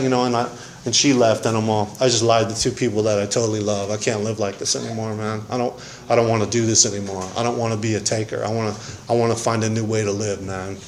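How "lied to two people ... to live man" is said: soft, fast despairing rush; hushed broken confession. Real, not acted. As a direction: pour it out quietly, at the end of the rope.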